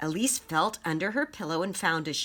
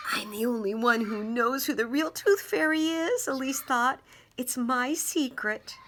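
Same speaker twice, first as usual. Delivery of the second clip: secret pride; 7 semitones higher than usual. Acted. Child's private proud thought.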